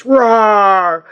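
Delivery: mock roar. Voicing the picture on box.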